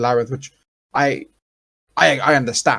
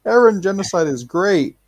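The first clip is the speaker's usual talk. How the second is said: high, whiny mock of a clueless kid; 4 semitones higher than usual. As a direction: send up a dumb kid, starting high. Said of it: "The first time he was like".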